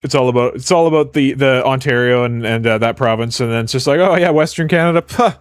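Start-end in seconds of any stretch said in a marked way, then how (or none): 4.0-5.3 dismissive. Acted. Voicing dismissive Ontarians.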